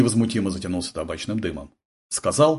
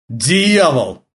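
angry growl, louder; 4 semitones higher, 5 dB louder than usual. A narrator's reading. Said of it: "зарычал Полундра".

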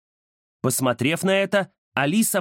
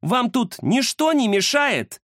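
sarcastic hint; 9 semitones higher than usual. Acted. Indira sarcastically points at ghost.

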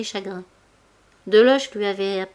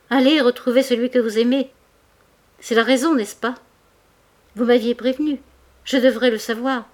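higher, louder, desperate reproach; despairing outcry; 4 semitones higher, 5 dB louder than usual. A narrator's reading. Mouret accuses Denise of loving another, anguished outcry. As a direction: throw the jealousy at her through tears. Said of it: "cria-t-il dans un flot de larmes".

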